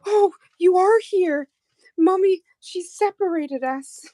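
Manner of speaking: high, slow little pleading dog voice; voicing the dog. Telling a friend what the dog said, high put-on voice. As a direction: speak as the sad little dog. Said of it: "She's like".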